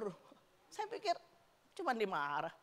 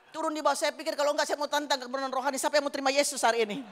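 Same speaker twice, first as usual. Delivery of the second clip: excited; 3 semitones higher, 6 dB louder, faster than usual. Retold or imitated. Excited challenge.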